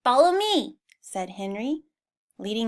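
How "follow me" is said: higher, louder call to follow; a touch of eager command; eager leader. Acted. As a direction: lead them on brightly. Henry leads animals.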